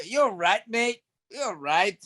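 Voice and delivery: lightly put-on Manchester accent; attempted Manchester accent. Shown as a demonstration. Asked by the host for the accent, a tentative Manchester imitation. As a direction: have a modest go at a Manchester accent. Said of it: "Can you do the Manchester accent".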